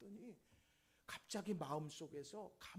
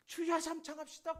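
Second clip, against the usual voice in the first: loud, high call to pray; leader's rallying call; 9 semitones higher, 10 dB louder than usual. Retold or imitated. Prayer leader to the congregation, loud rallying call. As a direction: call out to rouse a crowd.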